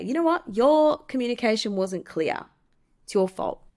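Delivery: lightly acted finger-pointing; accusatory. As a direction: throw the blame at them, acted out. Acting out someone projecting blame.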